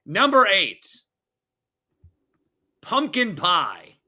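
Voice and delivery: lightly hammed-up list announcer. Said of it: "Can you do it in an announcer voice?".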